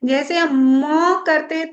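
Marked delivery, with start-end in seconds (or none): 0.8-1.2 म drawn out, higher and firm; vibrating M. Shown as a demonstration. Meditation teacher shows how Om's last sound resonates, long vibrating म. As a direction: stretch म into a humming vibration. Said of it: "मस्तिष्क में बहुत ज्यादा vibration".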